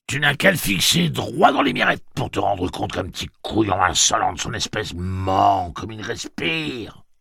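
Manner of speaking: high, heated accusation; angry insistence. A narrator's reading. Gâcheur discrediting the boy to his chief, heated and high.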